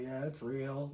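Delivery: low, soft creepy answer; lightly voiced creepy stranger. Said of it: "a creepy voice".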